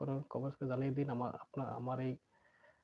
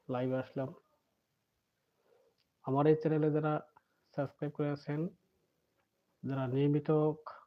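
muffled, speaking behind a mask; through a face mask. Real, not acted. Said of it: "মুখে mask পরে আছি". (মাস্কের ভেতর দিয়ে চাপা গলায়)

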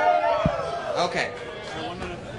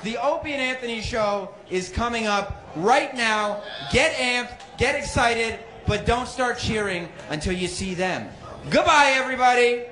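big stage announcer voice; announcer hype; 3 semitones higher than usual. Acted. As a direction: hype the crowd like an MC. Warm-up host hyping crowd.

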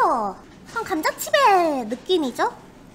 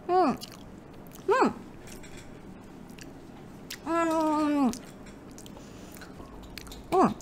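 crunching chips; 12 dB quieter, much slower than usual. Real, not acted. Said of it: "오, 쩝쩝 소리 굿".

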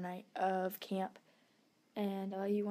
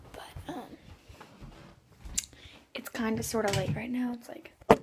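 whispering. Real, not acted. Late at night, hushed.

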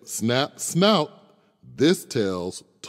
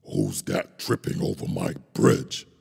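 roaring troll. Acted. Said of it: "roared the troll".

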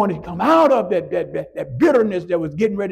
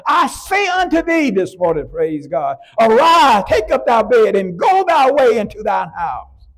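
commanding Jesus. Acted. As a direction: order the sick man to rise. Jesus commanding the paralyzed man.

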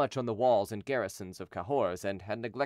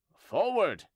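high, raised command; crying out; 7 semitones higher, 4 dB louder than usual. A narrator's reading. Henry to his men under fire, crying out. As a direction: call the charge, pitched up. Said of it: "cried he".

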